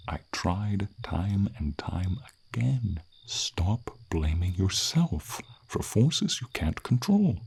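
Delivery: slow, drawn-out urging, rising sharply at the end; impassioned plea. Acted. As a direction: plead slowly, peaking high and loud on the last word. Dragon urging its self-blaming rider.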